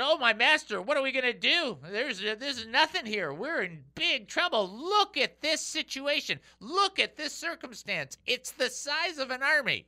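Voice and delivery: high, pleading cry of fear; panicked servant. Acted. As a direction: beg the master in a panic. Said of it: "So he said".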